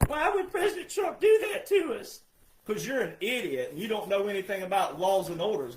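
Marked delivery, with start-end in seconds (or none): 0.1-2.2 mock whiny complainer. Mocking complainers' whiny question.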